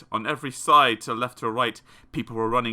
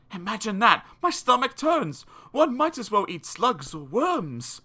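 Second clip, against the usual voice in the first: mock disgust; 8 semitones higher than usual. Reader recoils at eating snails.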